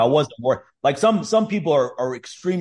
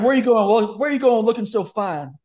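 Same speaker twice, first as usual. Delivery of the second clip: exaggerated cartoon intonation; 8 semitones higher than usual. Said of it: "they try to black it up a little bit".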